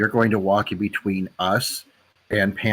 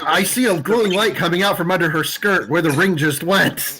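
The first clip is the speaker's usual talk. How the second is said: mock glowing light; 9 semitones higher, 3 dB louder than usual. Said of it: "mock joke about the gnome".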